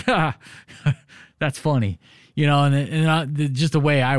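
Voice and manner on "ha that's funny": mocking laugh. Wife laughing at marathon plan.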